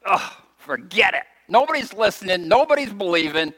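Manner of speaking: exasperated giving up; mock despair. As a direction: throw up your hands. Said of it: "you've heard me confess".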